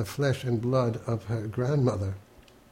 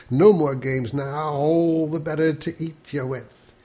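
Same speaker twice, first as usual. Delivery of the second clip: bursting wolf pounce, louder; wolf climax; 3 semitones higher, 4 dB louder than usual. Acted. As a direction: burst into the wolf's big line. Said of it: "the storyteller can burst into the climax".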